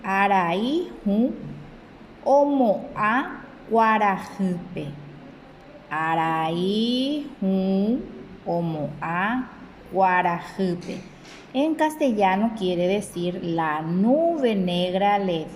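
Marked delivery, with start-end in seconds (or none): 0.0-4.9 a careful, measured model reading; slow read for pupils; slow reading aloud. Shown as a demonstration. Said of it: "Dice, "Amoñe'ẽ mbo'ehárandive". 5.9-11.1 word-by-word dictation pace; very slow repeat. Shown as a demonstration. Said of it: "Dice, "Amoñe'ẽ mbo'ehárandive".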